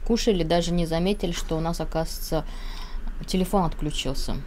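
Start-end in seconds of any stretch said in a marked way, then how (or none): 0.1-0.4 chewing between words; talking with food in mouth; mouth full while talking. Real, not acted. Seen 1: Both visibly chewing, cheeks full; words may be voice-over.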